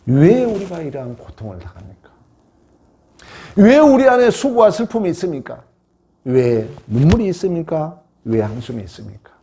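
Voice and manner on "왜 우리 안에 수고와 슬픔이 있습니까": raised, emphatic pulpit question; impassioned preaching question. Real, not acted. Preacher asking why sorrow is within us, impassioned. Preacher's rhetorical outcry to congregation.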